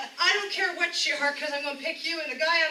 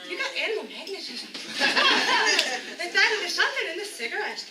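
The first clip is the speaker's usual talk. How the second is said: overeager flirty giggling. Acted. Bachelorette flirting.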